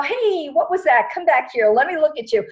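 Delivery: loud, high mock demand; insistent calling back. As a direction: call after something that is getting away. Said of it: "sometimes people wanna go".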